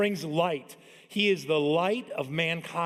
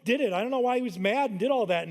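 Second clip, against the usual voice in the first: innocent son; 6 semitones higher than usual. Retold or imitated. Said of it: "he said, he goes".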